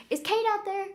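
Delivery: retold call from the stage for someone. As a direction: shout it out like you're searching the room. Host on stage calls into the audience.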